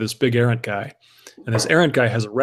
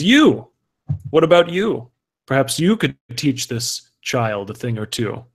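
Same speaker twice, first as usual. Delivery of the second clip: haughty errant; 2 semitones higher than usual. Acted. GM voices errant challenging crowd.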